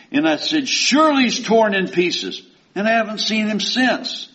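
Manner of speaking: high, loud, declaiming reading; preacher reading scripture aloud. Acted. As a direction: proclaim the verse to the congregation.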